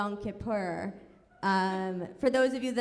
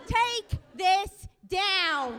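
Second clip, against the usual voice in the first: mock mom comment; 8 semitones higher, much slower than usual. Mom's comments read out.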